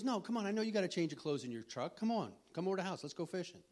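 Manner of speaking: high, loud eager urging; pleading friend. Retold or imitated. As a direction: drag your buddy out fishing. Friend pleading, imitated by speaker.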